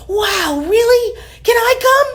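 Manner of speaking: high, excited questions; light up at the idea. A narrator's reading. Mabel thrilled by the knight's quest, high and excited.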